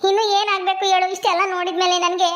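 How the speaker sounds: acted tearful lament with sobs; weeping complaint, breaking into sobs; crying. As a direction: wail your grief to a brother. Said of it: "ಯಾಕೆ ಅಳ್ತೀಯ".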